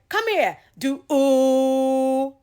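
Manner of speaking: high, loud call to come and sing; eagerly calling a child over; coaxing mother. Retold or imitated. Mother calling her son over to sing, high and eager. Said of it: "She calls my brother".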